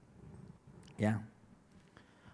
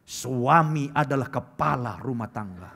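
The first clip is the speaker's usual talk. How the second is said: a hint of a lecturing wife, louder; haughty wife; 2 semitones lower, 6 dB louder than usual. Preacher mimics wives who claim support as their right, mock lecturing. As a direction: recite it like a wife citing duty. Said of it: "Gitu ngomongnya".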